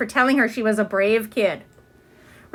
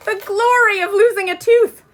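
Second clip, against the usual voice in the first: high, louder triumphant cry; thrilled; 9 semitones higher, 5 dB louder than usual. Acted. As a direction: revel in the glory of it. Ramona thrilled.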